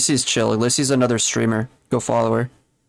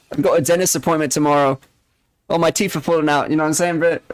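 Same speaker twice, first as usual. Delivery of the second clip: slightly higher mock British accent; casual hammed-up British chat; put-on British accent; 3 semitones higher, faster than usual. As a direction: keep up the joke British voice. Keeps joking as a British speaker.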